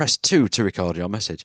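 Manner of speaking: plain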